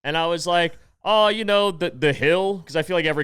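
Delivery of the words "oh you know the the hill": much higher and louder, airy fake confidence; bluffing breezily. Comic bluffing a dorm name to the woman, breezy. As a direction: toss it off like it's obvious.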